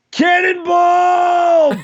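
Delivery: drawn-out high shouted cannonball; cannonball call. Real, not acted. Co-host mocks the quarterback's dive with a drawn-out yelled call. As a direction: stretch it out like a diver yelling cannonball.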